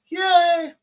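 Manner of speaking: high, loud yay; excited cheer. Real, not acted. Cheering about the formal.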